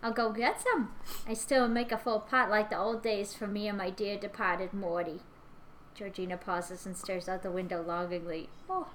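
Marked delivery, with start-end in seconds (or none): 0.0-5.2 put-on a sweet chatty old woman; old lady voice. Plays Georgina.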